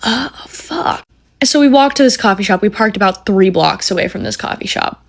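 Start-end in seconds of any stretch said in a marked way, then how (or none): 0.0-1.0 deflated curse. Retold or imitated. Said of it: "I'm like".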